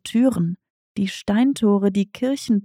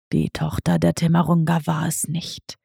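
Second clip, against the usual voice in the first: lightly voiced lower cat, a touch softer; understated lower cat voice; tomcat Diego asking; 5 semitones lower, 3 dB quieter than usual. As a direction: ask like a sly old tomcat.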